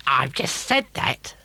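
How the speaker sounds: slow, spiteful witch voice; scheming witch, disgusted. Acted. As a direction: spit out the list with loathing. Witch scolds.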